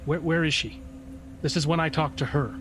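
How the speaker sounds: mildly pleading questions. Acted. Spirit asking Rogar where Clara is, pleading. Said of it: "he's pleading with you".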